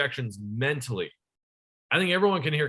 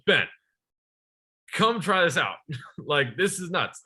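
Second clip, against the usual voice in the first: higher, a touch of retold excitement; mock excited dad; 3 semitones higher than usual. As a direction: lightly voice a dad who is thrilled for once. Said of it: "My dad seems excited".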